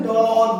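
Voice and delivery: "ডগ" with a long, open aw vowel; slow "ডগ", holding the aw sound. Shown as a demonstration. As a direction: draw out the অ in "ডগ". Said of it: "অর মতো হচ্ছে".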